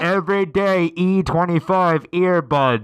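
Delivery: Everyday E twenty-five earbuds said slowly and clearly; clear repeat. Acted. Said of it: "what was that?".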